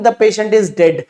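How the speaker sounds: slow, blunt "The patient is dead"; slow blunt delivery; blunt statement. Shown as a demonstration. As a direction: say it flatly and slowly, no softening. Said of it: "doctor कैसे बोलते हैं?".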